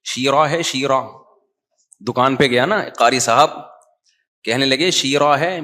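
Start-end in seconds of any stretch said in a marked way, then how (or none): 0.0-1.0 شیرہ with over-careful long vowels, "shee-raa"; Qari's tajweed. Retold or imitated. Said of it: "قاری تو وہ مشہور ہے نا". 4.9-5.6 شیرہ with over-careful long vowels, "shee-raa"; Qari's tajweed. Retold or imitated. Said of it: "تجوید قاریوں کی طرح".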